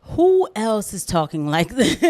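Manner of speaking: asked through a real laugh; half-laughing, can't believe it. Real, not acted. Host laughing at the clip he just played, asking who else talks this way.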